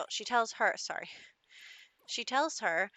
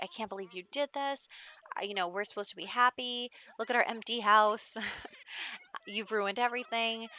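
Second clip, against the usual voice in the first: mock yelling; 2 semitones higher, 3 dB louder than usual. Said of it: "yelling at him".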